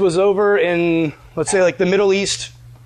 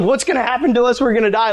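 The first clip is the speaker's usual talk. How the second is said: higher-pitched mock panic; freaking out; 4 semitones higher than usual. Worried friend to prankster after the email is sent, panicky. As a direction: retell it as a worried friend fearing the worst. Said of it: "I'm freaking out".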